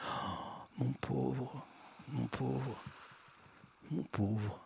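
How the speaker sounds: gently teasing, hushed and mocking; soft mocking tone. A narrator's reading. Ariana murmure à son compagnon qui frissonne, doucement railleuse. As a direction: croon it softly, lightly mocking him. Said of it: "disait-elle doucement d'un ton railleur".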